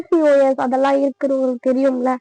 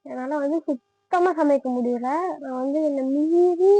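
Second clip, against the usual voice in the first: drowsy, slow and heavy; barely awake, dragging words; nodding off. Real, not acted. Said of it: "பயங்கர டயர்டா இருக்கு".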